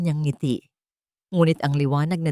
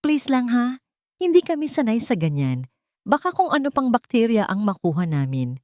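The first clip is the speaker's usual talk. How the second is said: condescending; 5 semitones higher than usual. Acted. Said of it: "na may pagmamaliit".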